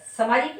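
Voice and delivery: सामाजिक as "samajik", first a short; wrong short vowel. Shown as a demonstration. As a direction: say सामाजिक quickly with an unstretched first syllable. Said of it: "नहीं".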